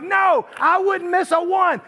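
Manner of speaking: put-on high, slow, eager girl voice; excited girl. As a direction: imitate the teen fan gushing. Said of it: "She's like".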